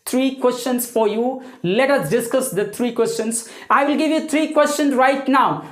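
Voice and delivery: slow careful English. Shown as a demonstration. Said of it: "addresses viewers in slow English".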